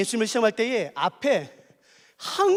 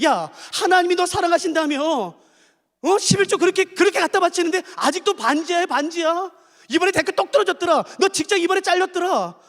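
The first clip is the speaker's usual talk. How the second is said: taunting Satan; 4 semitones higher than usual. Acted. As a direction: sneer at the believer's failures. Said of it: "그때 사단이". (신자를 비웃는 사탄의 높은 목소리)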